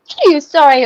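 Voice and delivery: sneezing; mid-sneeze. Real, not acted. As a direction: sneeze breaking through words. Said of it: "I had the most pathetic sne".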